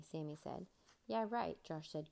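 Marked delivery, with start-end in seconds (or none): 1.1-1.6 a raised, teasing scoff; mock-disbelieving, louder; grinning sarcasm. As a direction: toss it off with a grin.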